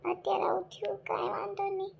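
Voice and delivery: whispered to herself, barely voiced. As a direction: breathe it out as self-comfort. Widow consoling herself alone.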